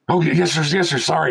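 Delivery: lightly voiced apologetic assistant; eager apology. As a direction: play the nervous tech scrambling to obey. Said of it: "techs apologizing".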